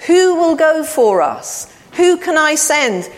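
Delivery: lightly voiced God calling out; God crying out. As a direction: call out slowly as God asking for volunteers. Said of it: "God cried out".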